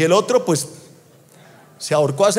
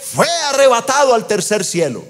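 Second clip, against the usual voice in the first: high, ringing preacher delivery; impassioned preaching; 4 semitones higher than usual. Acted. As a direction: preach it with rising force, drawing out key words. Preaches at full force.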